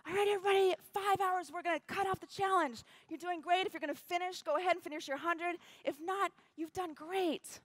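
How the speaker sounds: high, projected event-host call; rousing announcer imitation; race announcer on microphone. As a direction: address the whole field over the mic. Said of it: "Jesse gets on the microphone".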